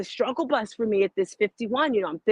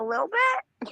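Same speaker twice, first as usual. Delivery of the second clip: teasing; 13 semitones higher, slower than usual. Pretend. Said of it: "I'm joking".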